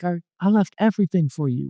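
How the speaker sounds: high, aggrieved protest; mad. Retold or imitated. Man reminds God of his sacrifice, retold anger. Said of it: "I was mad".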